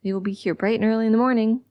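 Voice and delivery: quick, lightly sing-song nurse; a touch of bright-and-early lilt. A narrator's reading. Nurse trying to calm a murder suspect, mildly sing-song. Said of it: "with the dumb sing-song voice again".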